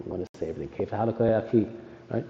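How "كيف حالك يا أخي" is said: كيف حالك يا أخي with every final vowel said; full fusha كيف حالك يا أخي; every vowel pronounced. Shown as a demonstration. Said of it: "we want to pronounce everything".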